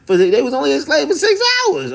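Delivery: squeaky, sobbing disbelief at the claim; exasperated whine. Real, not acted. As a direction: wail it in mock despair. Outraged reaction to the documentary.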